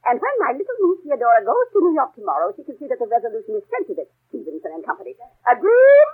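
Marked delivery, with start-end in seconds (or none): 5.5-6.1 sharp demand. Acted. Demanding agreement.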